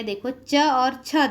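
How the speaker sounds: च and छ said slowly and apart, with छ aspirated; slow letter demo. Shown as a demonstration. Teacher to class, sounding out the two letters slowly. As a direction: sound out च and छ one by one. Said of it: "यहाँ पे कुछ संयुक्त अक्षर दी है".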